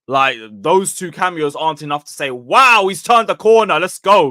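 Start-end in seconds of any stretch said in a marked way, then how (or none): 2.3-4.3 raised, louder mock celebration; mock excitement. Fan overhyping two cameos, mock excitement. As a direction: hype it up like an overexcited fan.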